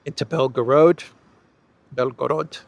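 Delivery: Belgorod said the American way, flat English vowels; American-style Belgorod. Real, not acted. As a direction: Belgorod with an American accent, then repeated. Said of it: "I said it with a very American accent".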